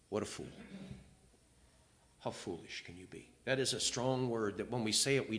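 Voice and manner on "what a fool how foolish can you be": hurt murmur. Retold or imitated. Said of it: "I would feel like this".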